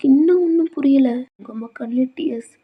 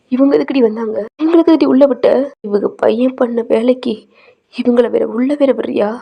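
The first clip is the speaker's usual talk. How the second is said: loud, furious demand; a shouted family row; angry shout; 5 dB louder than usual. Acted. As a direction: yell at her for letting them in. Angry relative confronts family at door.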